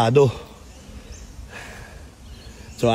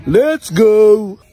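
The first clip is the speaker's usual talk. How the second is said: hyped shout; 9 semitones higher, 6 dB louder than usual. Real, not acted. Hyped call to go find kangaroo.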